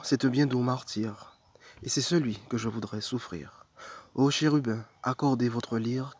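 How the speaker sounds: measured recitation, phrases starting up and falling away; devotional poem reading. Acted. Reading Thérèse de Lisieux's love poems to viewers, devotional recitation. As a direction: read it as a prayer, pausing between lines.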